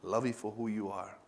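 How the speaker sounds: soft and low, full of love; tender voice of God. Pretend. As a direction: speak it gently as God would. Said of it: "He said".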